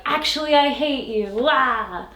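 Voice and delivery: fake-wail like a sulking heroine; mock tantrum. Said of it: "she's like".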